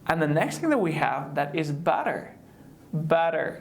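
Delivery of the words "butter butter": BETTER as "butter" with a quick tap; flap T. Shown as a demonstration. Teacher introduces the next word, butter with flapped T. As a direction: say butter, T tapped like a fast D. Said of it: "just say like".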